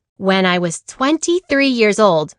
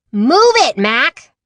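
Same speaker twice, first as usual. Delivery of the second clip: high, louder gruff trucker shout; mock trucker yell; 5 semitones higher, 3 dB louder, slower than usual. Truck driver Amelia yells at another driver, louder. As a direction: bark at the other driver.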